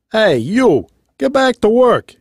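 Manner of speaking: high, forceful order; bossy foreman. A narrator's reading. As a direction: call out like an impatient foreman. Foreman orders the bear to work.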